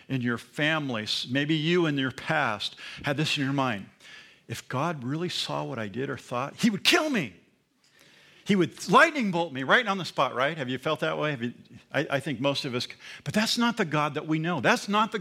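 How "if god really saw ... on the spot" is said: imitating a fearful sinner. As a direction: act out a guilty person bracing for punishment. Voicing a fearful sinner's thought.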